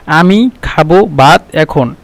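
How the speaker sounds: slow, deliberately jumbled order; wrong word order, slow. Shown as a demonstration. Teacher showing the wrong order, slow and deliberate. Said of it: "এভাবে কিন্তু বলবেন না".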